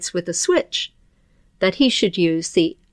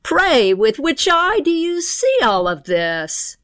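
sly pixie thief; 6 semitones higher than usual. Acted. Pixie thief demands an answer.

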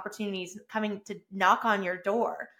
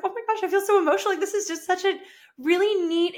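emotional gush; 9 semitones higher than usual. Retold or imitated. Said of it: "I was like".

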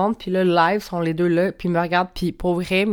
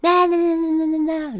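mock yelling babble; 9 semitones higher than usual. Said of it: "à crier quand je suis pas contente".

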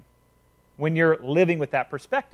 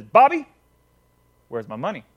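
a bully calling out his debtor; angry demand; 2 semitones lower, 4 dB louder than usual. Acted. Tommy roughly demands his money.

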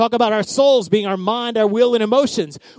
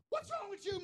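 mock frustration; 10 semitones higher, 21 dB quieter than usual. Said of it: "David was having a".

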